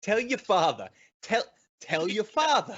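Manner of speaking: lightly mimicked debate jab; echoing Markey. Host echoing the senator's line, mildly mimicked. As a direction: repeat it as a mild Boston jab. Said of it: "I like that".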